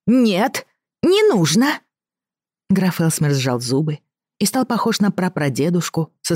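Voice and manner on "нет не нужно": put-on high, insistent little boy; protesting child. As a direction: cry out no like a spoiled kid.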